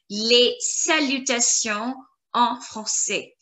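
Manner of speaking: les salutations en français, slow and careful; slow careful French. Shown as a demonstration. Teacher modelling les salutations en français slowly. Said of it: "We're gonna work on the pronunciation".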